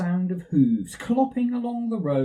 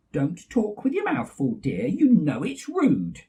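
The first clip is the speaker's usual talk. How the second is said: Mummy Bear; 3 semitones higher than usual. Acted. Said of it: "said Mummy Bear".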